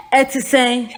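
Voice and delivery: "Ete seng" with a short falling vowel; Twi greeting. Shown as a demonstration. Teacher shows a Ghanaian how to say "Ete seng". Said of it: "Say it again".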